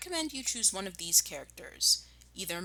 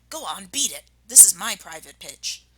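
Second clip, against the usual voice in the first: mild Rat shriek; 3 dB louder than usual. Acted. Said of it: "shrieked Rat".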